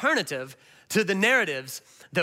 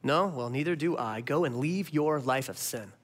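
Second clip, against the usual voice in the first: gentle Jesus; 5 semitones lower, 4 dB quieter than usual. Retold or imitated. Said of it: "And he says".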